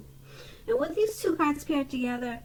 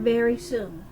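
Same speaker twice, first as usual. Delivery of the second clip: "very soon" repeated with measured weight on "very"; emphasis on very soon. Real, not acted. Card reader pointing out the key words, emphatic "very soon". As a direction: press "very", then let "soon" settle. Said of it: "I emphasize the word".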